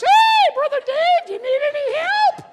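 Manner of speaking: very high, very loud, drawn-out booming voice. Retelling how Glenn came up to him at the door, in Glenn's big high voice. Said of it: "Big high voice".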